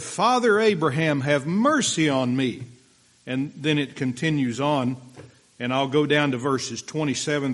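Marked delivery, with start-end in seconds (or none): 0.0-2.6 pleading rich man. Acted. Rich man cries from hell.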